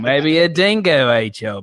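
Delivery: laughing, slow mock Australian accent; a giggling nod to the dingo line in an Australian accent; lightly voiced Australian accent. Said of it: "the Australian".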